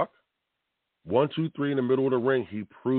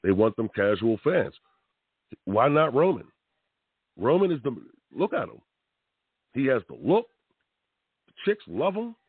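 normal talking voice

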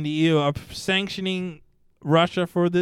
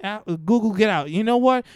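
higher-pitched, hammed-up kicking them out; mock angry Russia; 5 semitones higher than usual. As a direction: play a petty ruler throwing companies out. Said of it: "It's like".

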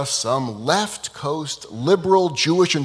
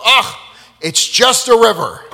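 dismissive scoff; 7 semitones higher, 7 dB louder than usual. Acted. Students scoffing at the rabbi's floating tree, dismissive. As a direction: brush the miracle off as nothing.

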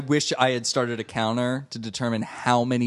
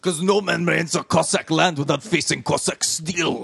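hammed-up Russian warrior voice; mock Cossack boast. Podcaster mocking the show's Cossack boast. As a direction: growl out the Cossack pride line. Quoting Cossack bravado line.

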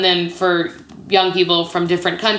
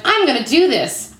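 higher-pitched retold vow; determined; 7 semitones higher than usual. Newcomer vows to herself on first night, determined. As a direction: declare it with mock-bold resolve.

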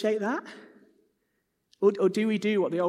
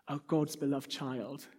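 soft whisper; 3 semitones lower, 7 dB quieter, much slower than usual. A narrator's reading. The Holy Spirit whispers.

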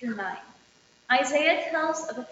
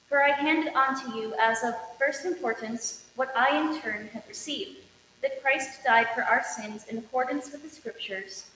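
measured formal reading of Isaiah; scripture reading. Acted. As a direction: lector proclaiming the Old Testament lesson. Lector reads Corinthians aloud.

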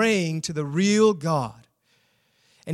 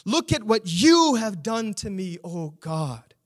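accusing lament; 3 semitones higher than usual. Acted. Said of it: "Do you see the fist raised?".

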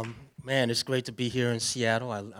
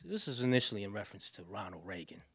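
whispered aside; 6 dB quieter than usual. Real, not acted. Aside about the poem.

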